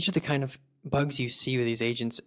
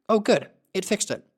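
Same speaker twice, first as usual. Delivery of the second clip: higher, louder burst of joy; excited relief; 8 semitones higher, 4 dB louder than usual. Real, not acted. Seeing the agent finally behave, excited and much higher. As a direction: cheer that the fix worked. Bug fixed in test.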